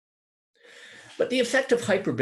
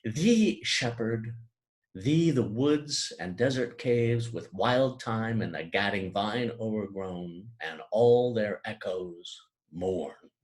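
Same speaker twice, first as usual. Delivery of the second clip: slow elegiac reading; poetic recitation; slower than usual. Shown as a demonstration. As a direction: read it slowly like a lament. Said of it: "Milton writes".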